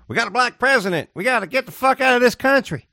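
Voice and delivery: high-pitched mock indignation; hammed-up secessionist complaint; outraged Texan. Mock quote of Texans wanting secession.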